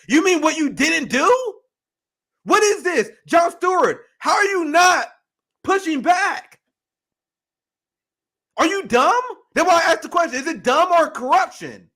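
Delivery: loud, high exasperated shouting; angry rant. Real, not acted. Host berating Jon Stewart, loud angry rant. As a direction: demand answers, fed up. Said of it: "Now I'm screaming".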